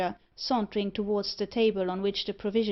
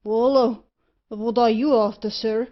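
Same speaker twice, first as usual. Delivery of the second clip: loud, startled shout; alarmed shout; 2 semitones higher, 9 dB louder than usual. Acted. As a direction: yell in alarm at the pistol. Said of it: "cried that individual".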